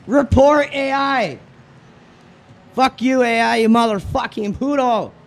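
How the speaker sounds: angry. Real, not acted. Raging at AI driver.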